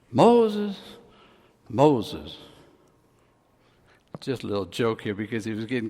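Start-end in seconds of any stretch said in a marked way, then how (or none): 0.1-0.8 first call. Acted. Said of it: "You had to call him twice". 1.7-2.4 second call, lower. Acted. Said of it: "You had to call him twice".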